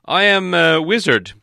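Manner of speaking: high, loud wizard voice; wizard explaining himself. A narrator's reading. Wizard explaining himself to huge man, high and insistent.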